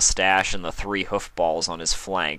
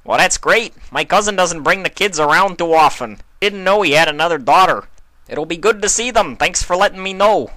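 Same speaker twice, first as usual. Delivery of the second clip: higher, much louder friendly greeting; a big neighbor welcoming a friend; louder hearty greeting; hearty stallion; 11 semitones higher, 9 dB louder than usual. Acted. Carlton cheerful.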